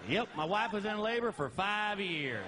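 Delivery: dry, slow sarcastic comeback; deadpan sarcastic reply. Retold or imitated. Husband to cashier, slow sarcastic comeback. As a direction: toss off the punchline dry and slow.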